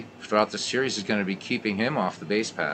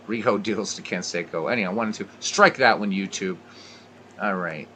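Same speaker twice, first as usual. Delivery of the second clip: play-by-play. Acted. Play-by-play commentary continues.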